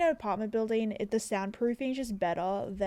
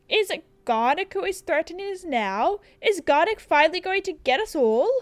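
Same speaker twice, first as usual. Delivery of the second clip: lightly voiced fretful official; councilman voice; 5 semitones higher, 4 dB louder than usual. Councilman fearing Garnock's threat, lightly hammed-up alarm. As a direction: ask it with mock dread. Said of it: "what voice do I do for the councilman".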